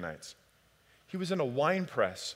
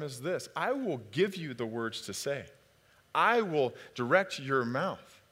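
God answering; 4 dB quieter than usual. Retold or imitated.

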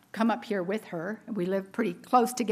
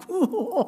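high, wavering mock-exasperated "ooh"; exasperated groan; 8 semitones higher than usual. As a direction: let out a comic, high "ooh" of overwhelm. Acts out her exasperation at crazy day.

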